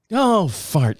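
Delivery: another light take of the wife's oh fart; mild mock of her tame swear; lightly voiced wife; mimicking wife. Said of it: "She started saying fart".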